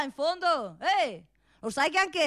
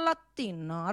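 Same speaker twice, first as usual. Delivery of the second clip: low soft latino; 6 semitones lower, 5 dB quieter than usual. Acted. Mocking the Latin speaker, low soft "latino,". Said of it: "parla pure latino".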